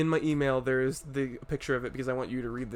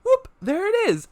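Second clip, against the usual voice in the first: higher, louder chanted hook; mock song hook; 7 dB louder than usual. Retelling Dave's catchphrase, chanted. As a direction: belt out the catchphrase. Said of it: "And he's like".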